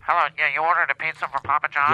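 nose pinched shut; holding nose. Acted. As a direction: voice squeezed through a held nose. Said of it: "I'm holding my nose".

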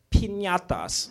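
put-on Spanish pronunciation; mock Spanish accent. Shown as a demonstration. Comic demonstrating Spanish to the crowd, mock Spanish accent. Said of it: "how I say penis in Spanish".

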